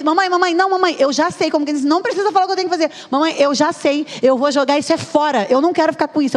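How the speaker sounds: put-on high-pitched insistent little girl; imitated six-year-old. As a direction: cut mum off like a know-it-all child, high voice. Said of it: "resposta de uma criança de seis anos".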